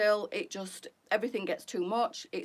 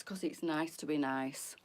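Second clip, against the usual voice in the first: soft unvoiced whisper of the motto; hushed motto whisper; 6 semitones lower, 7 dB quieter than usual. Real, not acted. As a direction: breathe it out as a secret. Whispered catchphrase.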